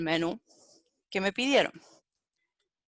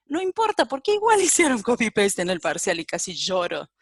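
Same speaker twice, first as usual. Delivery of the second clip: amused dismay breaking into a laugh; laughing exasperation; 4 dB louder than usual. Real, not acted. Teacher recalls students' copy-paste in the exam, laughing exasperation.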